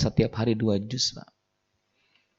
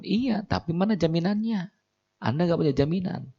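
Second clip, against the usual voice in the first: stern officer; 8 semitones higher than usual. Acted. Immigration officer refuses student.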